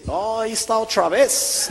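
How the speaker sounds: high, drawn-out mock gringo voice; imitación del gringo. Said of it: "el gringo me dice". (gringo imitado, agudo y lento)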